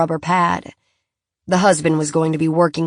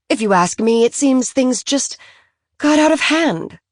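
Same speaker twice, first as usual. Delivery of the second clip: higher, animated society wife confiding; a lightly voiced Francophile mother sharing secrets; gossiping socialite; 4 semitones higher than usual. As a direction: spill the story eagerly, rising to the end. Philly explains the contract.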